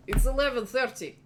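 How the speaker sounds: a hint of a chill, spaced-out gym owner; mellow stoner. GM voices stoner proprietor.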